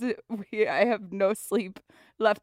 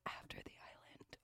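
voice cracking; 26 dB quieter than usual. Real, not acted. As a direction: voice cracks mid-read. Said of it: "my voice just cracked".

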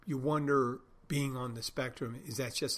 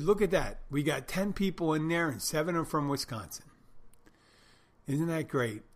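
higher and louder, proud cheer; excited boast; 4 semitones higher, 5 dB louder than usual. Retold or imitated. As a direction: show off the crowd like good news. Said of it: "The Woods guy Bruce said to me".

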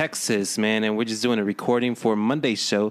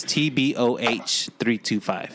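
each letter of "T B O H" said slowly and clearly, the H stressed; slow careful spelling; 2 semitones lower, slower than usual. Shown as a demonstration. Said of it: "but don't forget the H".

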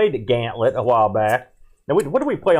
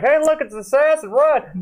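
panicked shout; 11 semitones higher than usual. Retold or imitated. Acted panicked warning in retold scene.

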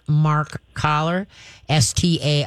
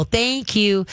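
calm praise; 4 semitones higher than usual. Shown as a demonstration. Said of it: "So you're gonna calmly go".

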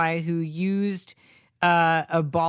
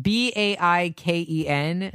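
spelling it out; slower than usual. Shown as a demonstration. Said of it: "How's it spelled?".

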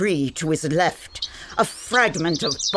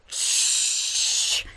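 hushing; 3 dB quieter than usual. Acted. Narrator hushing co-narrator.

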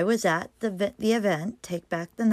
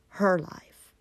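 whispering. Real, not acted. Dramatic drop at story's peak.

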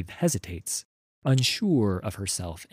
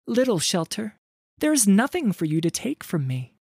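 put-on much higher, louder frightened girl calling out; fearful call; 12 semitones higher, 4 dB louder, faster than usual. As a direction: call out, trying to hide her fear. Wreath's frightened plea continues.

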